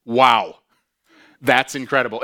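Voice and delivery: loud amazed exclamation; awestruck wow. Pretend. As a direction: gasp it out at the angel. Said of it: "I'd be like".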